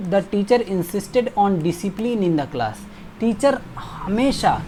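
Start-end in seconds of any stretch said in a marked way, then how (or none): 0.1-2.9 slow reading with "on" stressed; slow model sentence. Shown as a demonstration. Teacher stressing "on" in the model sentence. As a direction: lean on "on" as you read slowly. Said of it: "insist के साथ हमेशा on".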